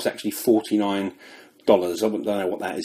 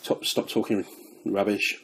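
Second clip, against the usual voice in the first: whispered self-scolding; whispering; 7 dB quieter than usual. Real, not acted. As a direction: mutter it to yourself. Scolding himself under his breath.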